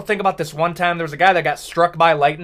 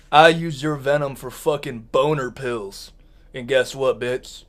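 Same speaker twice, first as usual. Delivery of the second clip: much lower, softer predatory threat; menacing badger; 7 semitones lower, 7 dB quieter than usual. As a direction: growl it low like a predator.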